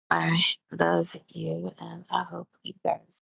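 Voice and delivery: drowsy, barely awake; sleepy voice. Real, not acted. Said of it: "You sound a little sick".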